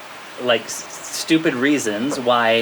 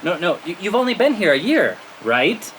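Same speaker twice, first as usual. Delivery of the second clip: higher, insistent leading question; tough hinting; 5 semitones higher than usual. Retold or imitated. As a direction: press them firmly to catch the hint. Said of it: "now he has to be tough".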